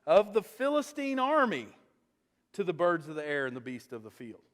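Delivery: ringing, defiant proclamation; young fighter calling out the giant, ringing and defiant; bold declaration. Retold or imitated. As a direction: proclaim it like a battle cry. David's defiant speech, loud lines.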